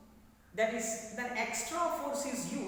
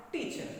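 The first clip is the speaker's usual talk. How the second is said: "teacher" modelled with a high TEA; stress on first syllable; 4 semitones higher than usual. Shown as a demonstration. Teacher invites students to try, "teacher" stressed on TEA. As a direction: lead with a strong TEA in "teacher". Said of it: "You try".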